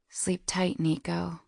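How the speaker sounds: soft breathy whisper. A narrator's reading. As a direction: whisper goodnight into the phone. Soft goodnight on the phone.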